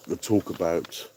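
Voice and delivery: lightly done nerdy lecturer voice; a hint of a know-it-all nerd. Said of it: "doing that in the nerd voice".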